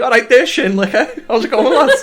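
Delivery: lightly done Scouse accent. Shown as a demonstration. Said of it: "if you say it in a Scouse accent".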